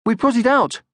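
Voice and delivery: put-on high, loud young troll shout; eager troll shout; Moomin Troll shouting. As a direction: shout it proudly like a child. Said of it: "Moomin Troll shouted".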